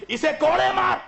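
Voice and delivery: high, loud barked command; ruler's furious command; angry order. Acted. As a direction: snap the order at Shimr. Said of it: "Yazid को गुस्सा आया".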